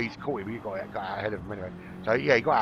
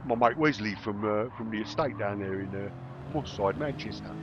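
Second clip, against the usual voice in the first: lightly put-on Cockney; Cockney accent. Joking about a mate from the estate, light Cockney accent. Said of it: "did that in a Cockney accent".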